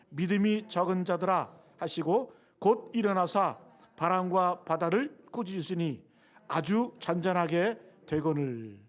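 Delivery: slow, measured Bible reading; scripture reading aloud. Acted. Preacher leads congregation in reading the verse together, measured recitation. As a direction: read it out slowly for everyone to follow.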